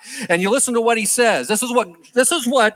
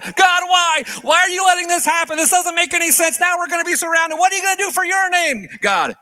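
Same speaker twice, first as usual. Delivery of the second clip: theatrical whining; 10 semitones higher than usual. Retold or imitated. Preacher mocking Joshua's theatrics to God, hammed-up whine. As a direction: overplay the panic of a frantic complainer. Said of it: "Here's Joshua going through all the theatrics".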